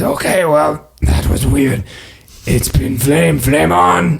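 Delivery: cocky sign-off, building to flame on; dragon NPC flourish. Acted. GM's dragon leaving the party with a cocky flame on. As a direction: wink it out with swagger. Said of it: "And he says".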